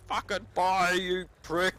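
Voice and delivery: angry yell at the gun. Retold or imitated. Gamer yelling at a gun that won't fire, mock furious. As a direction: curse the jammed gun in a high yell. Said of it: "I was like".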